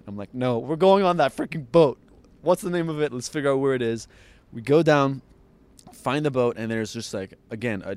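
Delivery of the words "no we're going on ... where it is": determined rallying. Retold or imitated. Rallying friends to find the boat.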